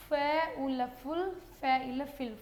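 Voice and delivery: फे उल फुल, फे इल फिल spelled out slowly, each part apart; syllable by syllable. Shown as a demonstration. Teacher to students, slowly sounding out the syllables. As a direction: break फुल and फिल into slow sounded parts. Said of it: "इस तरह से दिखाना आपने".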